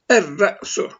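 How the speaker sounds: "er-re'su" with a doubled rolled R; no L in the article, hold the R in "er-re'su"; silent lam, doubled R. Shown as a demonstration. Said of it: "R şeddeli okunuyor".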